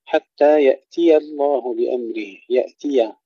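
recited line with thin ya in يأتي; light ya. Shown as a demonstration. Teacher models the verse, light ya in يأتي. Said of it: "ترقيق الياء".

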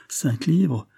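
disbelieving, high query on livres; stunned question. A narrator's reading. The poor woman checking the sum, stunned. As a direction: ask it as if mishearing. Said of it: "suffoquée par la surprise et par la joie".

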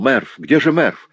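тревожный возглас; anxious exclaim. A narrator's reading. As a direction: call out for the missing friend. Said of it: "воскликнул".

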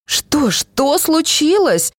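high, slow panicked wail; wailing cry. A narrator's reading. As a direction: cry out in alarm, stretched out. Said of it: "завопила она". (испуганный вопль, высоко и протяжно)

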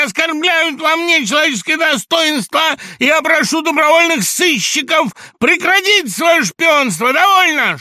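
high, loud, shaking with agitation; hysterical shout. A narrator's reading. Laevsky reeling, shouting high and loud at Samoylenko. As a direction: scream it out, close to a fit.

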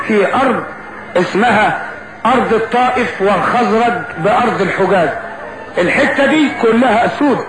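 lively folk epic narration; arabic cafe storyteller. A narrator's reading. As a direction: address the audience like a street bard.

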